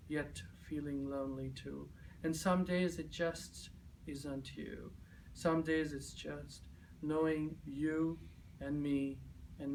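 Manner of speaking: spoken-word love poem; love poem recitation. Acted. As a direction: recite each phrase deliberately, letting the ending sink.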